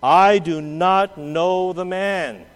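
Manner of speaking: slow, deliberate denial with an oath; slow sworn denial. Acted. Peter swearing an oath to the servants, slow and deliberate. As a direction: swear it word by word. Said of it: "denied with an oath".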